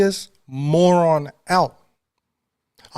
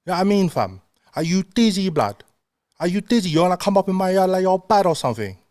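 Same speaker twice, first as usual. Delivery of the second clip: higher-pitched mock London roadman; cocky London roadman impression, pitched up; London roadman accent; 6 semitones higher, faster than usual. Shown as a demonstration. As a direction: challenge someone in put-on London street talk. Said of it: "walking around and speaking like this".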